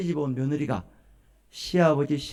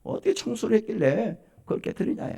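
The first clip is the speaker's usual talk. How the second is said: acted grumbling reproach after the outburst; mock indignant nagging; angry father-in-law; 4 dB quieter than usual. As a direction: scold the wife, subsiding from a shout. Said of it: "화가 나가지고 그냥".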